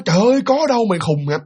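high exclamation dropping into retort; acted-out protest of innocence; indignant denial. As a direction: fire back, offended. Kiên cãi lại, chối.

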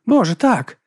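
loud, high exclamation; exclaiming. Acted. Baptiste recalls the troll, loud and high. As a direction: burst out with it.

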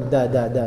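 repeated "da" with tongue behind upper teeth; hard d on each "da"; dal sound. Shown as a demonstration. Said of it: "Di atas, di belakang gigi". ("da" dengan lidah di belakang gigi atas)

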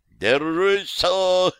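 rushing in to help, calling out; urgent cry to a falling friend; shouted out. Acted. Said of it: "выкрикнул Борислав".

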